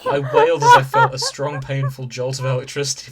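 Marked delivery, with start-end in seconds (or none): 0.1-0.7 reading through a burst of laughter, much higher and louder; can't hold the laugh while reading; breaking up mid-sentence. Real, not acted.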